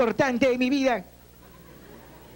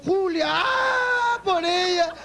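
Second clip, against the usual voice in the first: much higher, hammed-up crying cry of Julia; mock sobbing wail; 7 semitones higher, much slower than usual. Heartbroken man cuts himself over Julia, hammed-up sobbing. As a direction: wail her name like a melodramatic heartbroken fool.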